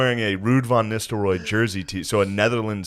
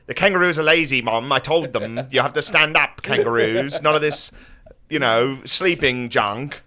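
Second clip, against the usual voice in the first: put-on higher, bossy little kid voice; childish tattling voice; 4 semitones higher than usual. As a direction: tell Mom like a whiny child.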